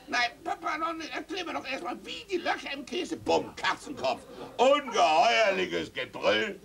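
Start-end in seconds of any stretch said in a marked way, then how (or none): 0.1-3.2 put-on very high, pleading boy; child's high voice begging papa. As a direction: whine to stay up a bit longer. Child begs to stay up.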